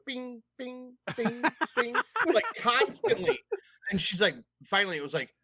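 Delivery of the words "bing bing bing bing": playful sound effect. Retold or imitated.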